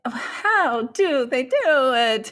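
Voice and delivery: put-on light Italian accent. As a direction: ask it with a hint of Italian accent. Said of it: "Thank you for saying that in an Italian accent".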